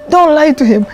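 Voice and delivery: angry order. Retold or imitated. Jail head kicking the prisoner.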